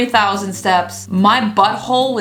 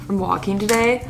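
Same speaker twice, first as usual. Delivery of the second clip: exhausted; 5 dB quieter than usual. Real, not acted. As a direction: sigh it out, worn out. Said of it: "I feel so gross".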